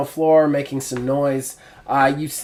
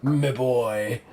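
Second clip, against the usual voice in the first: whispering inner voice. Acted. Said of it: "the voice starts in again".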